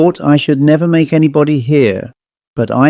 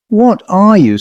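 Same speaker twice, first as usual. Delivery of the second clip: high, louder fearful demand; alarmed question; 7 semitones higher, 3 dB louder than usual. Acted. Woman demanding what the silent child is, high alarmed voice. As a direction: push the question out in fear.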